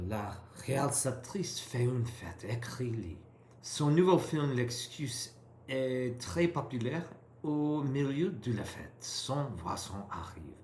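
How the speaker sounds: rereading with an eager try at a French accent; attempted French accent. Shown as a demonstration. Learner rereading the passage for her tutor in an attempted French accent. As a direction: lean into the French sounds with enthusiasm. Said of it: "with an accent or an attempted accent".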